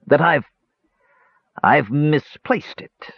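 hesitate, repeat, then admit it slowly; stammering. A narrator's reading. Dwarf confesses the loss to the brothers, stammering. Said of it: "stammered Dugan".

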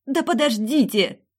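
loud, high, drawn-out bark; barked plea. A narrator's reading. The heroine finally barks at the arguing men, loud. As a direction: snap at them to wait. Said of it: "рявкнула я".

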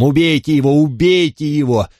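mild mock scream at the dogs; screaming order. A narrator's reading. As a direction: urge the hounds on. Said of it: "завопила она псам".

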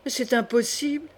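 mild dismay, rising at the end; disbelief. Acted. Sister refusing to believe her mother guilty, dismayed disbelief. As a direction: protest in disbelief without raising the volume.

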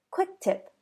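ordinary delivery

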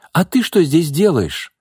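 high, slow, astonished question; amazed to find a friend here; exclaiming in surprise. A narrator's reading. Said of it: "воскликнула Марина". (изумлённо восклицая)

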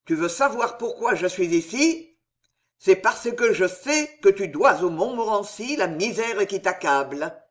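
crying out. Acted. Henri shouting the shameful truth at the old father. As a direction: hurl the accusation at him. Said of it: "que je viens te crier".

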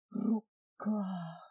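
breaking, sobbing voice; tearful cry. Acted. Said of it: "срывающимся голосом произнесла, вернее, проплакала".

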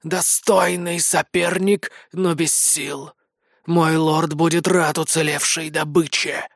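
drawn-out hissing snake voice. Acted. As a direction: stretch the name out like a serpent. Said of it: "змеиным голосом".

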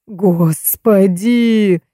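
very slow, drawn-out groaning cry; moaning. A narrator's reading. Baturin moaning over the dead man, very slow. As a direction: moan it out in despair. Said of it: "застонал Батурин".

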